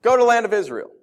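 loud, high announcing command; booming angel order; angel's command. Retold or imitated. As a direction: call it out like a heavenly messenger. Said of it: "This angel appears and says".

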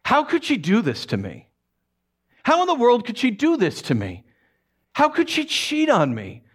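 rising, pained questions; anguished disbelief. Acted. Joseph's anguished inner thoughts.

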